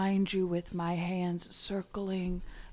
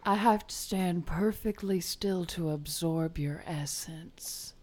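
whispering. Acted. Mystic healer whispering.

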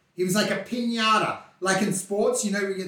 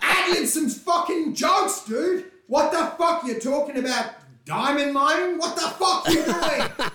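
higher, slow exasperated rant broken by laughter; laughing mock rant; 7 semitones higher than usual. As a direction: laugh while scolding a friend who bores everyone. Mock rant at a boring friend, laughing.

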